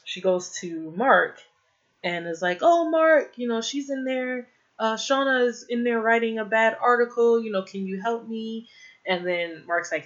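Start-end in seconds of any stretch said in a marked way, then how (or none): 2.6-8.7 mock worried plea, pitched high; freaking out. Woman begs coworker to stop a bad article, mock freaking out. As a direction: imitate someone in a mild panic, higher voice. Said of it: "Leslie starts freaking out".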